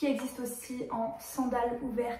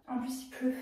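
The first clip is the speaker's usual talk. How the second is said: whispered aside under her breath; chuchoté; 3 dB quieter than usual. Real, not acted. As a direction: drop to a soft whisper. Aside while doing hair. (en chuchotant)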